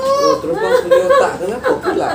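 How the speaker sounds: high squealing laugh through words. Real, not acted. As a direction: laugh while asking. Laughing reaction. (tertawa geli sambil bertanya)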